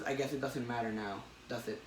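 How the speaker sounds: dying Norman. Retold or imitated. Retelling the comic, dying Norman answers Peter quietly. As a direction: let it sink away, weak and resigned.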